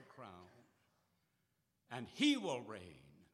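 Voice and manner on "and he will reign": loud, slow and majestic; climactic proclamation. Real, not acted. Preacher proclaiming Christ's reign, loud and slow. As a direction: proclaim it slowly with full force.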